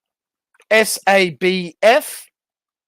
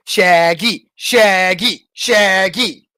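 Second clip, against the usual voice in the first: calling out; 7 dB louder, much slower than usual. Acted. Calling out name repeatedly.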